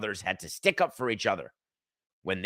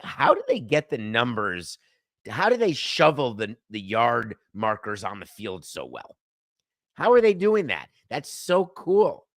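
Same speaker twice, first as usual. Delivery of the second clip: amazed; 4 dB louder than usual. Retold or imitated. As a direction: build wonder up to an awed gasp. Retelling amazement at snow markings.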